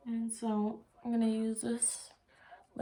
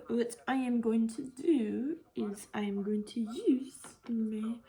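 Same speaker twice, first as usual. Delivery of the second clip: whisper. Real, not acted. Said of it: "whispering to camera".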